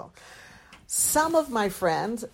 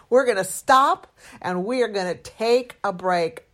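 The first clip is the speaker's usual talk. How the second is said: retold firm refusal; 5 dB louder than usual. Wife quotes husband calling off the day's work, firmly. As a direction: imitate his firm call, punching key words. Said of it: "He put his hand up and he said".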